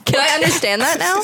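the pitch jumps up in real surprise on "now"; surprised question. Real, not acted. Player startled at hearing the wolf speak, surprised. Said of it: "Did you shift?".

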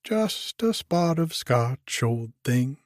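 chirpy and cheerful, up in pitch; brightly. Acted. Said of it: "he said brightly".

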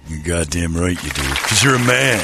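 gruff macho Marine colonel, lightly voiced; hard-nosed colonel sneering at the crew; Colonel Nathan Jessup. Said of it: "It's Colonel Nathan Jessup".

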